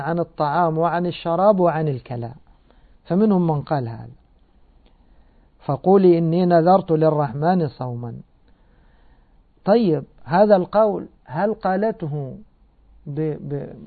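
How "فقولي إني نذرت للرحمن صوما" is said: Quran recitation. Acted. Recites part of the verse.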